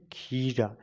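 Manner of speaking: खीरा with the ee drawn out; stretched long vowel. Shown as a demonstration. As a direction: lengthen खी, then drop onto रा in खीरा. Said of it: "इसे थोड़ा खींच करके साउंड आता है".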